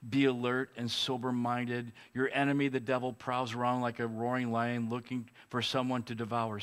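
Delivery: scripture reading. Acted. We read this.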